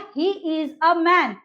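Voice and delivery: each word set apart, slow; slow demo. Shown as a demonstration. Teacher modelling English for students, slowly. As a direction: model the sentence for learners. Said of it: "या".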